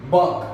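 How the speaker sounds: bank said the English way, short and clipped a; teacher modelling bank. Shown as a demonstration. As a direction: model word bank for the class. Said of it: "Vamos a escribir".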